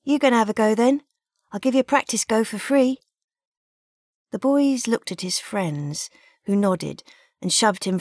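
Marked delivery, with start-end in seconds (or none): 0.0-3.0 higher, quick cheeky coaxing. Acted. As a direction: egg him on to play. Stallholder coaxing the boy.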